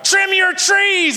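high, slow, drawn-out yell; wife yells back at neighbor, high and drawn out. Retold or imitated. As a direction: stretch the words into a yell. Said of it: "she yells back".

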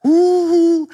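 a high, loud, eager "Ooh"; excited ooh. Retold or imitated. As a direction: squeal it like a fan who can't wait. Fan awaiting a new album.

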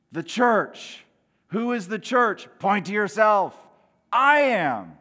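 loud, punchy call to the congregation; rally the room to answer; rousing call-out. Real, not acted.

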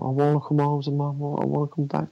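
mildly pleading, voiced as a retold quote; retold begging. Retelling George begging to go home to mum and dad, mild pleading. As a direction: lightly imitate a child begging to go home. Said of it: "he's begging him to take him home".

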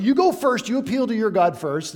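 a hammed-up challenge; mock challenge. Elijah dares the prophets of Baal, loud and high.

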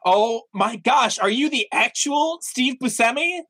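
high, slow gasp of a starstruck fan. Acted. Player meeting Steve Buscemi in the restaurant, starstruck. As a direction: gush like a fan meeting a star.

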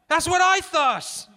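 slow, high, loud agreement; calling out. A narrator's reading. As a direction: call it over to him, drawn out. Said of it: "Garrison called".

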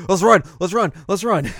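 high, loud, bouncy chant; rally the tired runners; eager cheer. Retold or imitated. Mio rallying the others to keep running, loud cheer.

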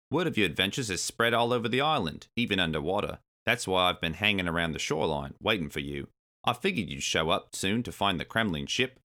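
lightly voiced confident swordfish; easygoing helper character, lightly put on. Swordfish reassuring his friends, lightly voiced character.

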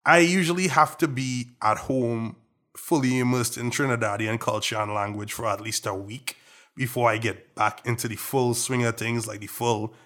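not-quite-full Trinidadian accent, conversational. Real, not acted. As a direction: speak in a softened Trinidadian accent. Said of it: "with this Trinidadian accent".

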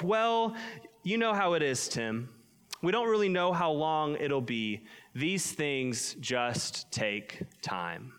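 unhurried Minnesotan grandma, slowing at the end; Minnesotan accent. Retold or imitated. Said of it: "in a typical Minnesotan, Midwestern accent".

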